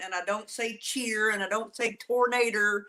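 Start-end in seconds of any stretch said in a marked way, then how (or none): 0.8-1.3 "cheer" said in place of chair; "cheer" as a Southerner says chair; mimicked Southern pronunciation. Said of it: "I don't have an accent". 2.0-2.8 "tornado" ending in an r, like "tornater"; "tornado" with a Southern -er ending; mimicked Southern pronunciation. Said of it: "I don't have an accent".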